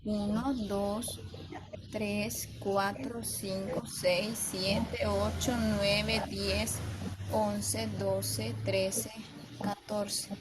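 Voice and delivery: slow, even syllable count; one by one, counting metric syllables aloud. Shown as a demonstration. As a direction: count each syllable out steadily like a teacher. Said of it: "Luego regresamos y contamos".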